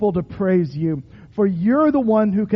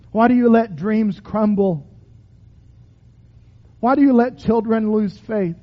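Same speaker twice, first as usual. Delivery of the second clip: lament prayer. Acted. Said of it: "What's your cry to God today?".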